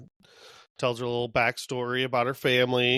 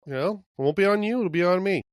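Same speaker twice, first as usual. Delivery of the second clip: higher Dina voice; 5 semitones higher, faster than usual. Retold or imitated. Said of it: "Dina's like".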